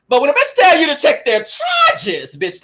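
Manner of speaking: laughing through the words, slow; can't hold the laugh while saying it. Real, not acted.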